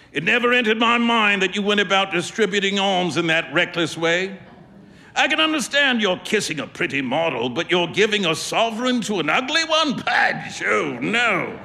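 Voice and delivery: a hint of a jovial painter chuckling at his friend; amused painter. Trevor ribbing Huey about the sovereign, lightly amused.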